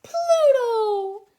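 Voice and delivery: high, loud joyful call of the dog's name; overjoyed high Mickey shout; happy cry. Acted. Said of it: "Mickey cried happily".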